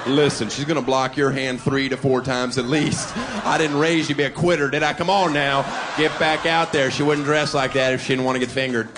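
loud, pushy dad pep talk; a father loudly egging his son on; coaching father. Retold or imitated. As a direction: fire up the son like a sideline coach. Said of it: "a father should give his son".

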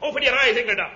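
put-on hammy German accent, barking commands; phony German accent. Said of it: "that phony German accent".

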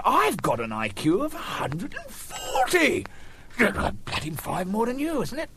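slow boastful bloke. Retold or imitated. Second bloke voiced.

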